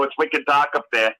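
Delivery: lightly imitated Maine lobster; dropped R's, New England style; Maine accent. Repeating the cartoon lobsters' line, light Maine accent. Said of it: "Yeah, they go".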